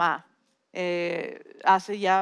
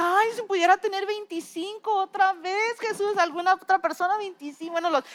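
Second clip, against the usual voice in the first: wistful sigh; 8 semitones higher than usual. Retold or imitated. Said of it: "Y dije".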